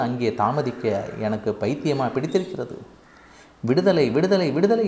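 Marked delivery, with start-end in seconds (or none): 3.6-4.9 high, excited cry of freedom; jubilant calling out. A narrator's reading. Parrot fleeing its opened cage, calling out in joy. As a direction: call it out high while making a getaway. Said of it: "என்று கூவிக்கொண்டே எடுத்தேன் ஓட்டம்".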